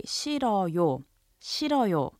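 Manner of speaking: 싫어요 spoken clearly, ending 요 stressed; 싫어요 또박또박; polite Korean. Shown as a demonstration. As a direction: model 싫어요 for learners. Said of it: "add the honorific ending 요 and say".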